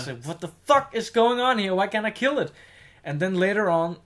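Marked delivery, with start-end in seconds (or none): 0.3-2.5 high, louder imitation of yelling at the game; retold frustrated scream. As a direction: re-enact an exasperated rant at the screen. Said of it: "I screamed at, at the screen".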